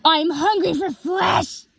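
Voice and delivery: slow, high-pitched cry, every word clear; clearer repeat. A narrator's reading. Twilight repeats her hungry line, clearly and menacingly. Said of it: "but clearer".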